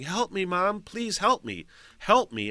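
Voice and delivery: high-pitched imitation of a pleading daughter; mock bawling plea. Daughter begging her mom in the background, imitated high plea. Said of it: "and bawling".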